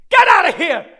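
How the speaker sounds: loud, high dismissal; angry shout. Acted. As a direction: yell to drive them away. Drives someone away.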